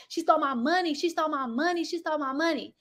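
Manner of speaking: lightly voiced husband complaining; mocking the husband. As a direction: repeat it like a sulking man. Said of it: "'cause he like".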